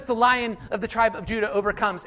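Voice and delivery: a triumphant second telling; proclaiming. Shown as a demonstration. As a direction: declare it boldly to the church. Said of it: "You guys have heard me do this".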